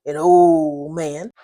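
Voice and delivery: put-on old stretched very slow and leaned on; slow, heavy emphasis on old; emphasized old. A narrator's reading. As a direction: hit old hard and slow. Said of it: "Harrison emphasized the word".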